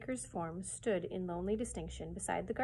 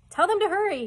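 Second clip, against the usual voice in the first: sudden high, loud call; shouting; 11 semitones higher, 12 dB louder than usual. A narrator's reading. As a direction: shout it urgently across the house. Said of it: "Father was shouting to Cuffy".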